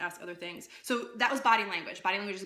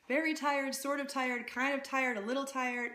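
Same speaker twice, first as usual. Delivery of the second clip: higher, lilting string of hedges; wishy-washy; 4 semitones higher than usual. Shown as a demonstration. Coach contrasting weak filler wording with conviction, wishy-washy. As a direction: toss the phrases off without commitment. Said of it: "Wishy-washy language belies".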